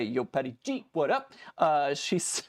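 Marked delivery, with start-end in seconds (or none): 0.0-1.3 playful shout-out. Acted. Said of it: "why I have to say it like that".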